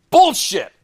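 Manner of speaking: an irritated gambler cursing the dealer; annoyed outburst. Retold or imitated. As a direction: snap it as the cards go down. Throwing cards at dealer.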